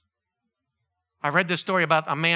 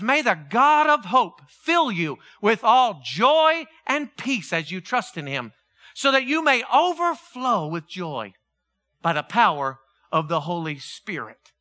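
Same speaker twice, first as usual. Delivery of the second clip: scripture reading; 2 semitones higher than usual. Acted.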